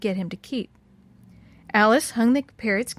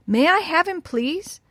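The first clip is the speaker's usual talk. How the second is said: high, eager request; eager plea; 7 semitones higher, slower than usual. A narrator's reading. Alice begs the old woman for the parrot, eagerly. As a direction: beg eagerly for a treat.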